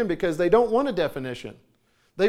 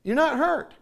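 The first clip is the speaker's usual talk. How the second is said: firm fatherly; 9 semitones higher, 5 dB louder than usual. Retold or imitated. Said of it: "I said".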